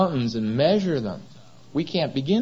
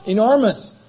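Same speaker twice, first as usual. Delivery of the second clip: booming exclamation; 8 semitones higher, 6 dB louder than usual. Real, not acted. Preacher exclaiming God's greatness.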